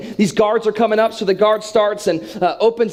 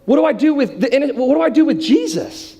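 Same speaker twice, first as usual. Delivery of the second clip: judge addressing crowd; 6 semitones higher than usual. Acted. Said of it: "and he goes".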